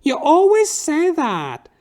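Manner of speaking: slow, high, loud falsetto drawl; drag queen catchphrase. Retold or imitated. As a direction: tease him with the catchphrase. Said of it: "she has a fucking catchphrase".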